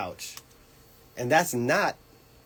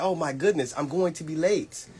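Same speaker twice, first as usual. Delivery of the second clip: replaying her own rush of nerves, pitched up; mock panic; 7 semitones higher than usual. Radio guest recalls fearing she'd be late: mock panic.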